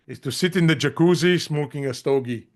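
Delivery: put-on a light Austrian accent, Arnold style. Podcast guest quoting Arnold's audiobook, light Austrian accent. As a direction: lightly imitate Arnold's Austrian accent while laughing about him. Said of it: "you know, with his accent".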